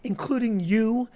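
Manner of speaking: pretend announcement. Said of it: "Did they say".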